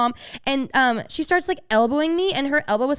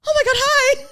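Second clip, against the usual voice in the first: squealed hi, pitched way up; excited high greeting; 14 semitones higher, 6 dB louder than usual. Retold or imitated. Retelling meeting the singer, a starstruck squeal. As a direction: burst out starstruck. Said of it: "I go".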